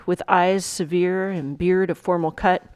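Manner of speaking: measured reading, slowing and fading to the close; dramatic recitation. Acted. Teacher reading the monologue to students, recitation winding down.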